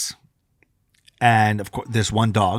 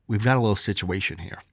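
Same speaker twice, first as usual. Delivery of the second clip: quiet aside; 6 semitones lower, 8 dB quieter than usual. Retold or imitated. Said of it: "I whispered it to my wife".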